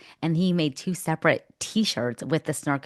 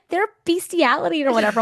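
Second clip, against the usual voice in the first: mock critics; 12 semitones higher, 4 dB louder than usual. Mocking imagined critics.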